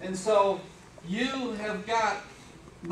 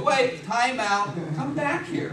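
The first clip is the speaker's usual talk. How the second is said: raised, drawn-out mock protest; calling her back; 4 semitones higher, 4 dB louder, slower than usual. Dad stopping his departing daughter, mock-indignant protest. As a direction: call out higher to halt someone.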